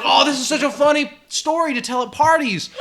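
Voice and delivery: high, loud, half-crying with laughter; laughing. Retold or imitated. Recalling how he thinks about the memory, laughing. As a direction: get the thought out through laughter. Quoting own thought, laughing hard.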